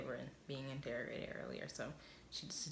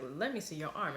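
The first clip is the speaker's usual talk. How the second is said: louder, firmer second ask; insistent repeat; 5 dB louder than usual. Retold or imitated. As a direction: press the demand harder. Mac repeats the demand, insisting.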